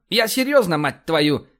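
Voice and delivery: high, forceful acted annoyance; exasperated insistence. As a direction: insist you mean it, losing patience. Insists angrily he is serious.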